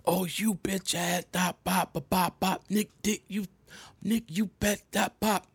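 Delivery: hammed-up raging girlfriend; angry girlfriend. Drunk girlfriend yelling at him in mock rant. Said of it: "She was like".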